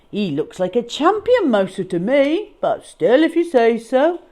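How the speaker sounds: a doubtful underling asking the boss; henchman voice. Acted. Cat disposal man asking his boss, lightly voiced. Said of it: "said a voice".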